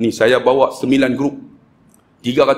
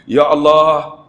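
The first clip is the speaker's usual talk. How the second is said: emotional prayer. Retold or imitated. Preacher praying to stir penniless single mothers, emotional pleading. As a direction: plead with God on the pilgrims' behalf. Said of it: "Saya mainkan perasaan".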